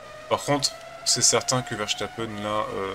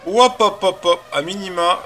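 excited hop hop; 8 semitones higher, 8 dB louder, slower than usual. Real, not acted. Excited counting while commenting.

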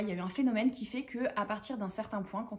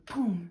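spoken "poum" boom; imitated impact noise; 2 semitones lower than usual. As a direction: mimic a sudden blow with your mouth. Imitates phrases hitting the brain.

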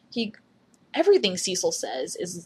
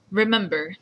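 lightly attempted radio host impression; a tentative stab at a radio host's voice; Cecil. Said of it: "okay, my Cecil impression".

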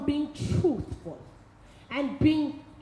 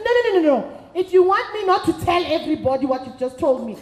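louder, half-laughing insistence; laughing threat; 5 dB louder, faster than usual. Retold or imitated. Friend pressing the woman to call the lovers, loud with a laugh. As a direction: laugh it off but mean it.

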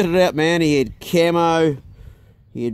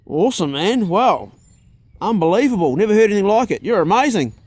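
mock praise; 5 semitones higher than usual.

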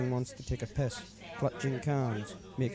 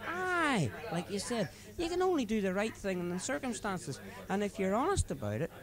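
put-on much higher drunken bluster; leering drunk Paddy; 9 semitones higher than usual. Paddy justifying himself to his friend, high leering bluster. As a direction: sell it as the most natural thing.

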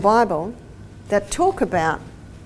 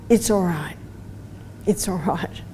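put-on low, softening reassurance to a child; gentle reassurance; 4 semitones lower, 6 dB quieter than usual. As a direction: soothe a little one, voice dropping. Mother reassures her little son.

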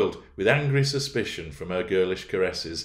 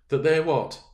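higher, louder anxious cry; 9 semitones higher, 6 dB louder than usual. A narrator's reading. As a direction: cry out troubled. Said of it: "cried Catherine".

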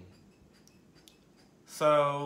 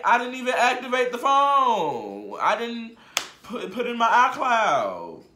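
confused outrage; 5 semitones higher than usual. Retold or imitated. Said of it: "I was in confusion".

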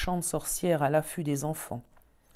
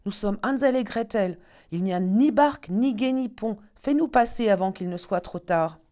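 higher, louder plea to the duck; pleading call; 5 semitones higher, 6 dB louder than usual. Acted. Gretel pleading with the duck to carry them, higher. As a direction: beg the duck to help.

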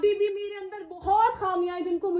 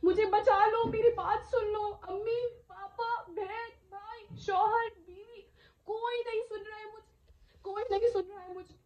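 higher-pitched, tearful acted pleading; desperate cry for help; 4 semitones higher than usual. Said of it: "मैं चिल्ला रही हूँ, मैं चीख रही हूँ".

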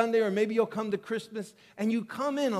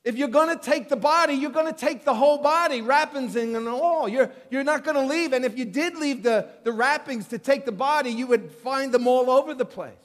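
Peter wondering aloud, raised and pressing; Peter's inner puzzlement; 4 semitones higher, 4 dB louder than usual. Retold or imitated. Preacher voicing Peter at the tomb, baffled and pressing. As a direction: voice Peter's baffled reasoning a touch higher. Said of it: "he's thinking to himself".

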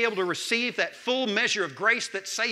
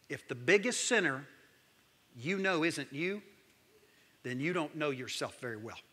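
hushed quote; 4 semitones lower, 6 dB quieter than usual. Shown as a demonstration. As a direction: let it land quietly, almost to yourself. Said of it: "I wanna quote".

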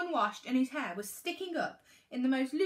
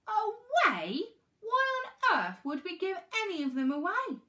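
high, loud indignant disbelief; shocked; 8 semitones higher, 5 dB louder than usual. A narrator's reading. Mum answers her daughter's plea, shocked. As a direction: react aghast, pitch leaping up. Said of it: "Mum was shocked".

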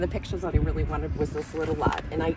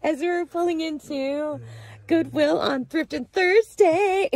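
put-on British accent; 8 semitones higher, 4 dB louder than usual. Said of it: "in a British accent".

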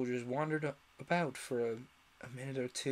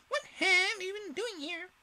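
high, slow, loud demand; queen grilling the gardeners; angry Queen; 5 dB louder than usual. A narrator's reading. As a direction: interrogate like a suspicious queen.

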